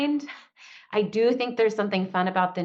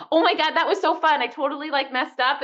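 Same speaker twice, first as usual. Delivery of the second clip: cheerful; 7 semitones higher than usual. Retold or imitated. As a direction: brush off the mistake with a bright laugh in the voice. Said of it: "Instead of like".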